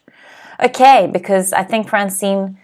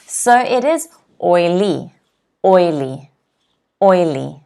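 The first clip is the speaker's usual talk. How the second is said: "oily" lower, OI stressed; stress on first syllable; 3 semitones lower than usual. Shown as a demonstration. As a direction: model OIly twice. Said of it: "the apostrophe ... before the first".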